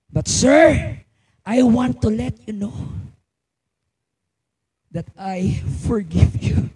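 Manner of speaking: slow down and let it land gently; gentle forgiveness. Retold or imitated. Grieving father forgiving his daughter's killer, gently. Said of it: "ang dugtong niya".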